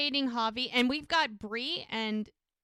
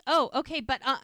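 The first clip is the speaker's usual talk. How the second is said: higher, louder, cut short mid-thought; trying to squeeze in one more word; flustered protest; 3 semitones higher, 4 dB louder, faster than usual. Retold or imitated. Woman trying to say one more thing before he hangs up, flustered.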